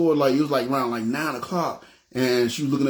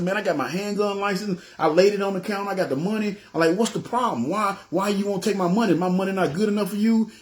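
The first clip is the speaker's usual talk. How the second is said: higher-pitched arguing, mildly acted; indignant protest; 6 semitones higher than usual. Customer arguing with the clerk over money, indignant. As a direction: plead your case, put out.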